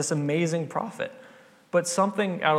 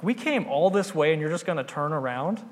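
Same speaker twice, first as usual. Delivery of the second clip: exasperated pleading, pitched higher; frustrated servant; 4 semitones higher than usual. Retold or imitated. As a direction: urge him not to give up. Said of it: "pretty frustrated with him".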